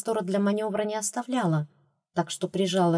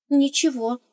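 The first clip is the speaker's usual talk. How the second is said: magnanimous; 7 semitones higher than usual. A narrator's reading. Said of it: "великодушно откликнулась я".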